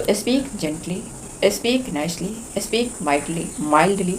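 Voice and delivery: softly spoken example phrases; gentle, mild. Shown as a demonstration. Teacher showing children how to speak nicely, gently.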